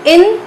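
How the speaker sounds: Intelligent drawn apart as in-te-li-gent; long pause after every syllable of Intelligent. Shown as a demonstration. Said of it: "तीन बार रुके हम इसको बोलने में". (Intelligent को रुक-रुक कर, हर सिलेबल अलग)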